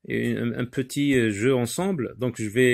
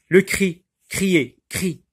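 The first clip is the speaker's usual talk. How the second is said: high cry; 6 semitones higher, 4 dB louder, slower than usual. Shown as a demonstration. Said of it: "quand on crie, il y a un son aigu".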